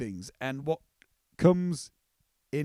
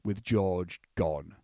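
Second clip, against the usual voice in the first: put-on old sheep voice; 7 semitones lower, slower than usual. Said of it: "And then he's like".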